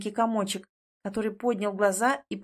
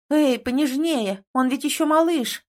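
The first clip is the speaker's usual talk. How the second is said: mild stern rebuke, raised and deliberate; scolding; 5 semitones higher, 4 dB louder than usual. A narrator's reading. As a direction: tell him off for being rough. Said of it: "отчитала принца".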